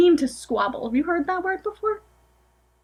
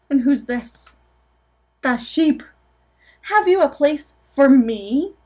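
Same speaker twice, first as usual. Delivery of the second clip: gentle storybook reading aloud; picture-book narration, lightly sing-song; reading to children; 3 dB louder than usual. Acted. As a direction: read it to a room of small kids.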